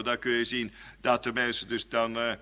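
ordinary talk

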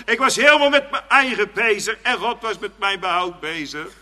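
high, loud amazed outcry. Acted. Preacher voicing a sinner amazed that God saved him, loud and high. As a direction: burst out in wonder at God's help. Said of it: "Dan denk je".

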